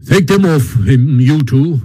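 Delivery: brisk, short command; curt order. Acted. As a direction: give the order crisply. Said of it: "ordered the Badger briefly".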